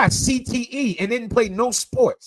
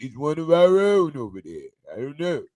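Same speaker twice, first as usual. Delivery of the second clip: Rocky Balboa impression; 3 semitones lower, 3 dB quieter than usual. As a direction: slur it like a dazed boxer. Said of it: "sound like fucking Rocky Balboa".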